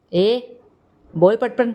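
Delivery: angry yell to speak fast; shout. A narrator's reading. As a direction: shout at her to hurry. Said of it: "Shiva ओरडला".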